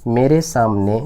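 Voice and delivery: slow, words drawn out; slow dictation. Shown as a demonstration. Teacher reading the sentence to students, slow. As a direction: dictate it so they can write. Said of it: "गौर से समझ".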